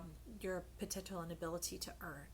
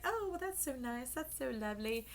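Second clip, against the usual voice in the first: high sweet delighted oh; delighted mock surprise; 5 semitones higher than usual. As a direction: gush like a pleased guest.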